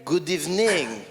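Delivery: good evening with a French lilt; French accent. Acted. Comic greets Montreal crowd, mock French accent. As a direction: say it like a French speaker. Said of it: "as the French say".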